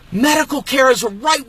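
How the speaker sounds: medical care as a right, shouted out; shouted emphasis. Real, not acted. Repeats his point, shouting it.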